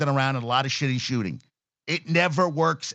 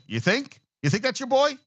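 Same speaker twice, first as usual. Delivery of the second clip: mock disbelief pitched way up; incredulous; 11 semitones higher than usual. Real, not acted. Host scoffing at the Kobe story, incredulous. Mocking Kobe's 'that's my boy'.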